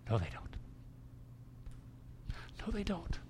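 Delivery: soft, firm denial; quiet firm answer. Real, not acted. Text answering the complaint.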